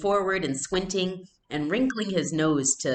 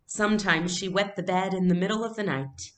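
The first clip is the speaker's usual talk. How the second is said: teasing mother; 5 semitones higher than usual. A narrator's reading.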